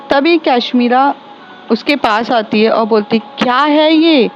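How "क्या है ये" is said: angry confrontation. Acted. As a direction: tell her off for picking this fool. Kashmira confronts the pushy boyfriend. (Kashmira Ashwini को डाँटती है, गुस्से में ऊँची आवाज़)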